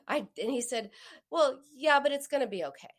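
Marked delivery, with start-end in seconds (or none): 1.3-2.9 higher-pitched imitation of a reassuring husband; retold reassurance. Husband trying to comfort his frustrated wife, imitated reassurance. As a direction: brush the worry away with quick comfort. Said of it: "He went right to the reassurance".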